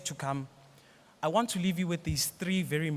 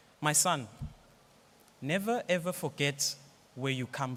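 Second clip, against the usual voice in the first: deep, reflective, philosophizing, god-like tone. Quoting a father's advice to his son: imitating father's deep, reflective voice. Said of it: "He says it with that tone".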